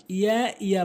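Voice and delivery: "ইয়া" quick and light; wrong pronunciation. Shown as a demonstration. Teacher shows learners the mistake, quick "ইয়া". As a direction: say "ইয়া" short, twice. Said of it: "ভুল উচ্চারণ".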